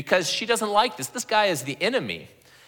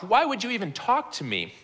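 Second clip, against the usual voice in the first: higher-pitched, lightly shocked question; mild mock shock; 4 semitones higher than usual. Samaritan woman shocked that Jesus talks to her, mildly acted surprise. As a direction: play her as taken aback. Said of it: "She's shocked".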